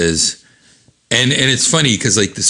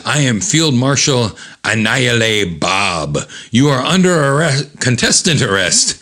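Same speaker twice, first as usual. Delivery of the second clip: officer's arrest order; 3 semitones higher than usual. Acted. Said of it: "And he says".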